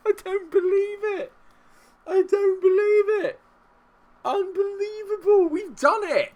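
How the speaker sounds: very high, loud disbelieving screams; real overjoyed yelling; ecstatic victory shouting. Real, not acted. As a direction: scream it out as the match is won. Celebrating win at final whistle.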